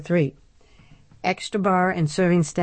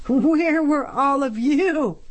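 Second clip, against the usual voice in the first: bitter; 9 semitones higher, slower than usual. A narrator's reading. Ingrid bitter after cackle.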